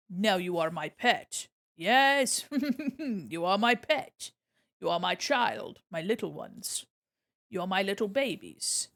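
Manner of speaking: low, slow monster-mother voice; playful creature doting on its babies; possessive creature. Pretend. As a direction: claim your pets in a low, measured voice. Plays creature claiming pets.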